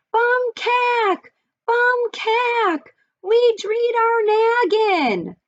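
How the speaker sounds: very high, squeaky little mouse screaming; tiny excited mouse voice. Acted. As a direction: squeal it like a tiny frantic mouse calling after them. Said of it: "tiny, excited voice scream".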